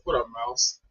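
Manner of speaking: low, soft nickname call; understated deep hello; low greeting. Acted. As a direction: say it quietly, dropped in pitch. Demonstrating nickname greeting, low and quiet.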